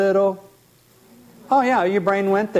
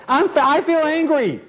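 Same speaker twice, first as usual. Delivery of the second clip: high, put-on complaining client voice; whiny client; 9 semitones higher than usual. Therapist imitating an aggrieved client, high whine. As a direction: pitch it up like a sulky client. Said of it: "And how you feel about it?".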